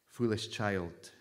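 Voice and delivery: put-on mother donkey gently correcting her child. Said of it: "she said gently".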